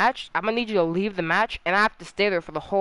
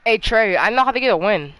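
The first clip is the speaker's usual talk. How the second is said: excited; 6 dB louder than usual. Real, not acted. Loud excited call to friend.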